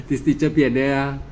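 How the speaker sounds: chuckling through the words; laughing. Retold or imitated. Monk laughs while imitating a doubting student.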